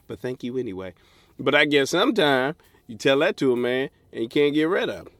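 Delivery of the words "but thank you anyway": polite mock refusal. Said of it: "All you had to do was say".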